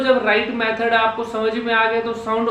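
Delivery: ordinary talk, nothing marked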